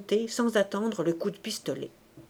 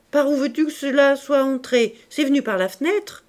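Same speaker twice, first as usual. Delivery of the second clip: wife's voice; 5 semitones higher, 5 dB louder than usual. A narrator's reading. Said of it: "fit la femme".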